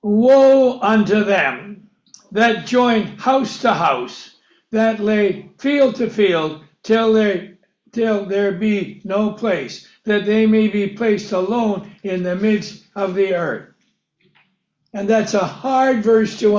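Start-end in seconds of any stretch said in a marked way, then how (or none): 0.0-4.4 slow scripture reading. Acted. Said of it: "he says". 4.7-13.7 slow scripture reading. Acted. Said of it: "he says".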